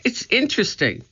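put-on fascinated boy. A narrator's reading. Jack fascinated by mummy.

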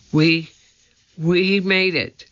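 shivering, stammering with cold; cold and chattering; teeth chattering. A narrator's reading. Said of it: "Her teeth were chattering".

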